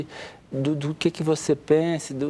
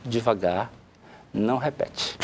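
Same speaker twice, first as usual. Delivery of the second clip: softer, slow and calm; speaking softly; 6 semitones lower, 6 dB quieter than usual. Shown as a demonstration. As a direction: show how to speak low and slow. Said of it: "tem que falar baixo". (fale baixo e devagar)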